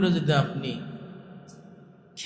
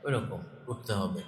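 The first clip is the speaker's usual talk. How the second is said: soft demo; 3 semitones lower, 6 dB quieter than usual. Shown as a demonstration. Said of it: "প্রথমে আস্তে শুরু করেছি".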